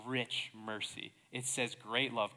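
RICH drawn out, GREAT hit hard; emphatic stress. Real, not acted. Corrects "mercy, love" to fuller wording.

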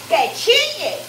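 cheering the sizzle on; a glad call to the pan; excited cry. Real, not acted. (grito alegre)

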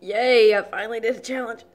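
celebrating. Real, not acted. Celebrating finishing.

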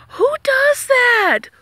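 high, slow, breathless whisper of disbelief; incredulous whisper. Real, not acted. Vlogger aghast at the guard ditching Daya, high slow whisper. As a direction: whisper it like you can't believe it.

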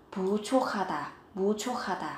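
부족하다 with 족 linked into 하 so it sounds like 조카다; linked aspirated sound. Shown as a demonstration. Teacher drilling students on 부족하다 read as 부조카다. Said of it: "phát âm thành âm khở".

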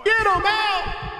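slow, high, stretched-out shout; drawn-out yell. Real, not acted. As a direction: drag every word of the order out. Yelling at teammates mid-fight.

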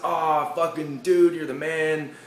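excited party friends cheering; partygoers praising. Retold or imitated. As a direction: hype him up like a party bro. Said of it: "and everyone's like".

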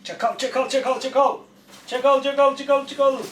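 high singsong teasing of the dog; pet talk. Real, not acted. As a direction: coo the nickname over and over, high. Teasing dog, calling it names.

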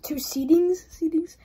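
wait, did I just say that; puzzled echo. Real, not acted. Vlogger questioning his own wording, bemused rise. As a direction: repeat it as a bemused question, rising.

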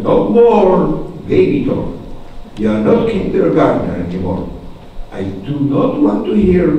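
a hint of a strict schoolteacher; lightly acted stern teacher. Teacher banning baby talk to first graders, mildly stern. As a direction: lay down the rules, lightly stern.

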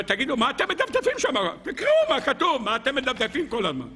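high-pitched, exasperated mock demand; exasperated questioning. King to the readers who keep flipping pages, exasperated. Voicing a challenge to page-turners.

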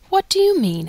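sharp high surprised question; startled. Acted. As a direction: jump up in alarm.

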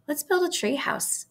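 put-on high, eager boyish voice; eager suggestion. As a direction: pitch the idea excitedly. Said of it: "Avery suggested".

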